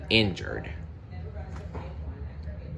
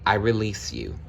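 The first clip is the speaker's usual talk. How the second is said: sadly. Acted. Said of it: "he said sadly".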